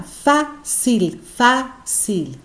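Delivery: "fácil" pulled apart, strong high fá then cil; slow "fácil" in separate beats, weight on the first; tonic syllable demo. Shown as a demonstration. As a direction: break "fácil" in two, stressing fá. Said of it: "Fá é a sílaba tônica".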